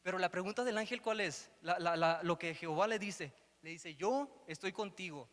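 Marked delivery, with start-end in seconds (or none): 3.9-5.3 slow, with yo leaned on firmly; stress on yo. Shown as a demonstration. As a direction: land on Yo, then let estoy contigo settle slowly. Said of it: "el presente".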